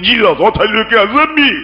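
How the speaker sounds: mock the panicky yelling pray-er; mock shout at Jesus. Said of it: "shouting on Jesus".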